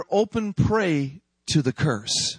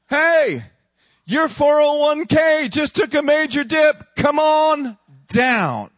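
the devil taunting the believer in the tower to come down; 8 semitones higher, 4 dB louder than usual. Acted. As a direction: sneer up at the tower like a game-show host. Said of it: "This is the devil".

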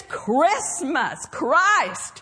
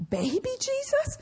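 put-on child's question; 10 semitones higher, 5 dB quieter than usual.

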